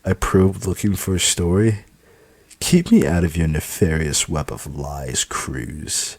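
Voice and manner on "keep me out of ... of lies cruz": sharp snapping retort. Acted. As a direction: snap back at her. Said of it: "Natalie snaps at me".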